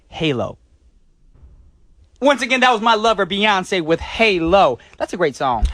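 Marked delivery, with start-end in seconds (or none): 2.2-4.8 slow, dreamy, louder fan gush; swooning. Acted. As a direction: swoon over a singer. DJ swooning over a singer.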